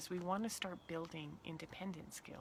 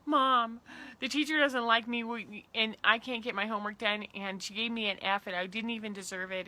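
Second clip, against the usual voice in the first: put-on higher, louder upset child venting to mom; complaining kid; 3 semitones higher, 5 dB louder than usual. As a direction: pour out the grievance to mom.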